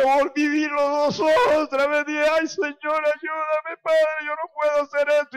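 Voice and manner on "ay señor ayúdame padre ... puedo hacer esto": raised-pitch appeal to God; imploring, higher than usual; retold desperate plea. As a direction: re-enact an urgent, helpless prayer. Re-enacts desperate prayer for help.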